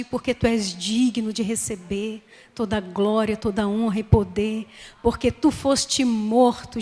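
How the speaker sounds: solemn prayer swelling from hushed opening to firm praise; congregational prayer. Real, not acted. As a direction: address Jesus in prayer, building in fervour.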